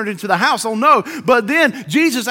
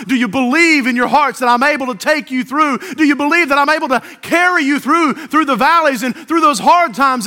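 urgent questions climbing higher and louder; building fervor; 3 semitones higher, 3 dB louder than usual. Acted. God challenging believers in hard times, building fervor. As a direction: build each question toward a preacher's peak.

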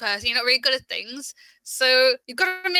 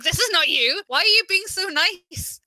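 higher, puzzled retold question; confused; 6 semitones higher than usual. Quoting her cousin at work, confused. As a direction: mimic a baffled cousin, pitched up. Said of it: "she was so confused".

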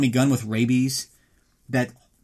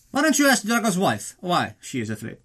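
mock Ludmilla; 6 semitones higher than usual. Voicing Ludmilla at dinner.

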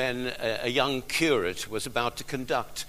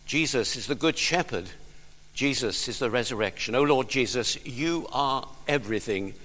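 spoken prayer. Acted. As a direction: pray aloud for the people, then let it drop to a hush. Pastor leads congregation in prayer.

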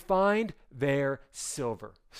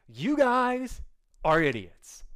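exasperated father; 7 semitones higher, 3 dB louder, slower than usual. Acted. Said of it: "He's like".

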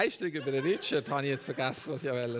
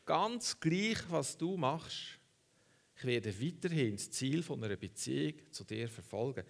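slow and softer, each word weighed; slower, softer repeat; 4 dB quieter than usual. Shown as a demonstration. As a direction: say it again, slowly and more softly. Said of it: "Noch einmal".

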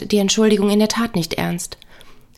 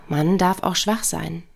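"man" stressed as if "Mann", slow and low; 3 semitones lower than usual. Shown as a demonstration. Explaining that the stress falls on "man", with "man" stressed. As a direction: lean on "man" so it means men. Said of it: "Die Betonung liegt auf Mann".

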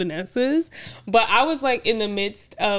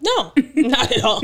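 put-on playful British accent through a laugh; 3 semitones higher, 3 dB louder than usual. Wife joking she didn't mind, in a playful British accent. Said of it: "I love British accents".

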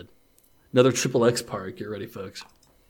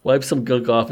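laughing; 3 semitones higher, 7 dB louder than usual. Real, not acted. Reader laughing mid-sentence.

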